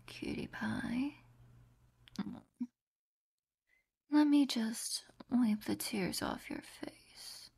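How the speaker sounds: hushed, tender whisper with a possessive edge. Acted. Soft possessive comfort whispers.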